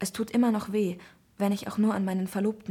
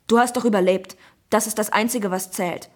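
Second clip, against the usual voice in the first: curt; 6 dB louder than usual. Acted. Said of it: "sagt er kurz angebunden".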